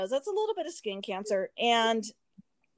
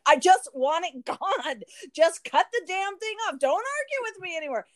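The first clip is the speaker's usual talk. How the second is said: raised, insistent "just cut it off" to the doctor; replaying her frustrated demand, pitched higher; mock angry demand; 6 semitones higher than usual. To the dermatologist who keeps delaying, mock angry demand. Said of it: "I was getting angry".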